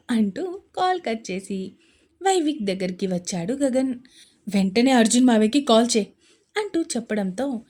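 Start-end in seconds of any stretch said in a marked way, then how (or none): 4.5-6.1 urgent order. Acted.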